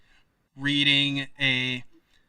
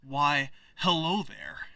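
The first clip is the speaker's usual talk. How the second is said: a lightly voiced, self-presenting hello; second-try character voice; 5 dB quieter, slower than usual. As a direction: try a mild in-character greeting at normal pitch. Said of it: "that's not the voice".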